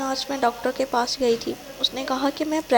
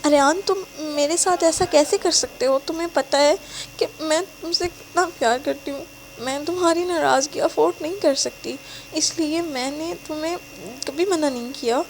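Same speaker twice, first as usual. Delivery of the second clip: sobbing; 4 semitones higher than usual. Acted. Betrayed girlfriend pleading with him, tearful. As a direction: cry out betrayed. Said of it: "وہ ہچکیوں سے روتے ہوئے کہتی ہے".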